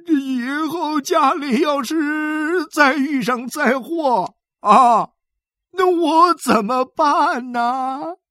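high, slow, whimpering lament; an old man weeping he is useless; sobbing old man. A narrator's reading. Xu Sanguan whimpers to his sons, slow and high.

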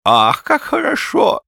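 high, slow, loud rapture; old man's high ecstatic cry; delighted old man. A narrator's reading. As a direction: sigh it out in drawn-out delight. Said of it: "сказал старик".

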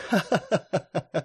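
slow airy laughing; ringing laughter. A narrator's reading. Rosemary laughs at Elmeric's protest. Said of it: "ещё более звонкий смех".

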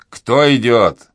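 громкий медленный окрик часового; резко окликни из-за ограды; грубый окрик. A narrator's reading. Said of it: "закричал грубый голос". (часовой окликает чужаков из-за ограды грубо)

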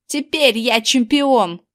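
slow, triumphant declaration; proud announcement. A narrator's reading. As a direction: proclaim yourself the champion. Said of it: "объявил он". (гордо объявляя)

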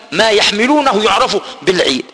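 usual speaking voice

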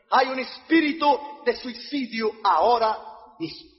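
slow, firm pronouncement; solemn, voiced warning from the pulpit; preacher's declaration. Real, not acted. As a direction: declare it slowly to the congregation. Preacher declares, then repeats it hushed.

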